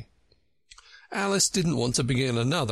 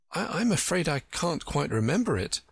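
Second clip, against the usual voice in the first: politely; 6 semitones higher than usual. A narrator's reading. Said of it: "Alice said very politely".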